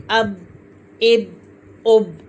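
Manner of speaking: "अब, इब, उब" stopped dead on the closed b; "अब, इब, उब" without any release vowel; no bounce. Shown as a demonstration. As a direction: shut the lips on the b of "अब, इब, उब" with no echo. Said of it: "ऐसे नहीं पढ़ेंगे".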